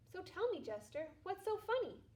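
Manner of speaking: a lightly voiced weary, bitter man; glum broke man. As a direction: grumble it out like a man who's lost everything. Unemployed man speaks to jester.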